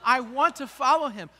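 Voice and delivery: sarcastic mock-pious child voice; a child's fake piety, mocked; lightly voiced sarcastic kid. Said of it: "do you think your child is going".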